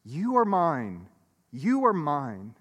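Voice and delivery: slow, gentle, repeated reassurance; God's loving voice. Acted. God speaking to the hidden heart, slow and tender. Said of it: "God's voice says a million times a day".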